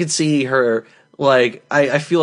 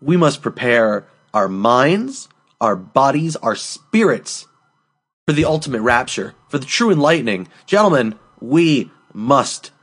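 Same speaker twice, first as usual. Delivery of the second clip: mock-solemn speech. Host rallying co-hosts for the warm-ups, mock-solemn. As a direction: draw it out like a mock-grand call to arms.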